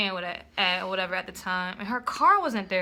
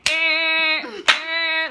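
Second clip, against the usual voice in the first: long honking "eh" blasts, raised and loud; imitated car horn; 5 semitones higher, 4 dB louder than usual. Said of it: "start beeping the fucking horn".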